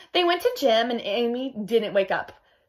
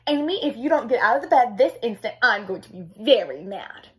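stern father. Acted. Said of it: "in his sternest father voice".

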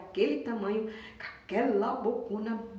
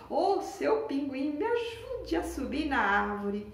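a cheerful sloth asking for a hand; happy sloth; 5 semitones higher, 3 dB louder than usual. Acted. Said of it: "ficou toda feliz e foi logo falando". (preguiça feliz pedindo ajuda, devagar)

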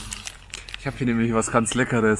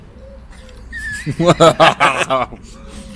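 Lachen mit vollem Mund; 2 semitones higher, 7 dB louder than usual. Real, not acted. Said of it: "mit vollem Mund spricht man nicht".

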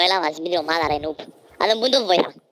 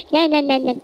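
much higher, imitating his voice after the shock; squeaky high voice; 10 semitones higher than usual. Retelling his voice after the car crash, much higher squeak. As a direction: chirp it high like a stunned kid. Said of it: "μόλις που το πολύ το σοκ, έπιεν".

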